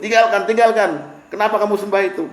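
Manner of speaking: pleading. Retold or imitated. Son pleading with idol-worshipping father.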